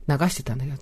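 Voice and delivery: ordinary talk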